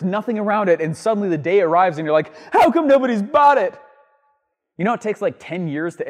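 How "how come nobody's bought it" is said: puzzled seller. Retold or imitated. Mocking the puzzled failed launcher.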